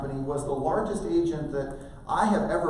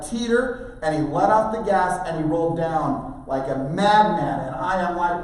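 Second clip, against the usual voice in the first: ordinary talk, nothing marked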